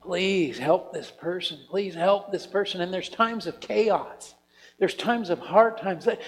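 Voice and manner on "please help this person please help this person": pleading prayer. Retold or imitated. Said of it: "Intercession is like pleading with God".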